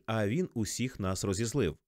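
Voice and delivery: plain reading voice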